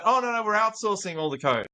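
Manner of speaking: high, breezy, clueless dismissal; a lightly hammed-up founder brushing it off; mock founder. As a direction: play the naive founder. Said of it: "And they go".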